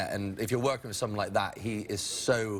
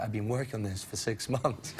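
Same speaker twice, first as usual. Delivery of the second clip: laughing disbelief. Retold or imitated. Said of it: "I was like".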